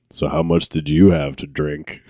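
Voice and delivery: low, mock-stern father; lightly voiced suspicious dad; deep dad voice. Friend's dad questioning a drunk teen by phone, deep dad voice. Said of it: "Like a deep dad voice".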